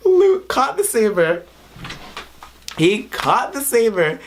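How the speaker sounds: high, thrilled exclamation; real excitement. Real, not acted. Fan telling viewers about Luke catching the saber, excited. Thrilled retelling of favourite moment.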